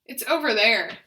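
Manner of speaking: loud, deliberate greeting; loud intentional voice. Shown as a demonstration. Therapist modelling functional phrases for repetition, loud. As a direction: project it clearly. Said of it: "loud and intentional voice".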